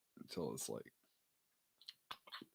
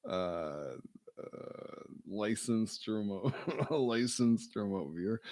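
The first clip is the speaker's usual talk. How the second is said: raised, louder boast breaking into a laugh; mock proud claim; 4 semitones higher, 5 dB louder than usual. Friend boasts as a licensed remote viewer, laughing. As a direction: puff up, then crack up.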